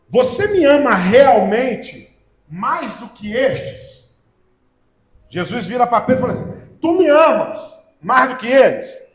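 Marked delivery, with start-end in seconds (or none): 0.1-4.2 slow, weighty question with emphasis on "realmente"; solemn question. Acted. Jesus asks Peter after the meal, solemn questioning. 6.8-9.0 slow, loud, deliberate stress on "amas"; stressed question. Acted. Jesus turns to Peter to question him, stressed question. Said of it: "Olha a tônica".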